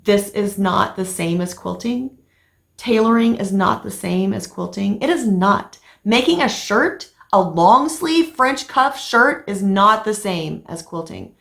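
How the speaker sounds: slow, emphatic, pitch climbing on the shirt part; exasperated insisting. Retold or imitated. Wife telling her husband tailoring isn't quilting, exasperated and slow. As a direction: spell it out to him like he isn't listening. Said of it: "And I was like".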